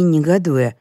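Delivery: usual speaking voice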